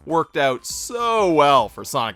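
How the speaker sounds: mock confidence with heavy emphasis; sarcastic. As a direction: lay the sarcasm on thick. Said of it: "I'm being sarcastic".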